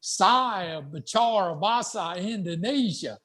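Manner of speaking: Indonesian in a slow Southern US accent. Shown as a demonstration. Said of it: "that's a Southern accent, you know".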